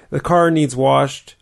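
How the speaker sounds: slow, deliberate dialect examples; slow example phrases. Shown as a demonstration. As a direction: spell out each example slowly. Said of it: "plus past participle".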